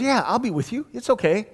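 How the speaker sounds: high, casual mock driver voice; breezy reassurance. Driver calmly reassuring the nervous pastor, high and breezy. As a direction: wave off the worry, lightly imitated.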